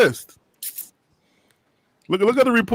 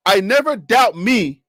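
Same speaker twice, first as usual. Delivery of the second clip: quoting coach; 3 semitones lower, slower than usual. Retold or imitated. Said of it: "you're not putting it on you".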